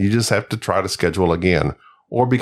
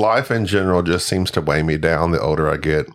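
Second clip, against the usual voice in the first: lower-pitched mock Aussie voice; Australian accent; 6 semitones lower than usual. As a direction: read the letter in a put-on Australian accent. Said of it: "I'm gonna do the voice".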